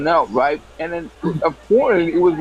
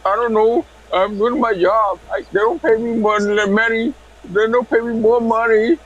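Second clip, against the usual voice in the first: higher-pitched voice of a woman on the line; prank-call woman; 6 semitones higher than usual. Retold or imitated. She answers the prank caller, high mimicked voice. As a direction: imitate her in a high, whiny-free singsong.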